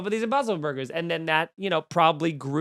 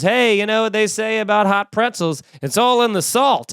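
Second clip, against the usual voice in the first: mock ad actor; 4 semitones higher, 5 dB louder than usual. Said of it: "and he goes".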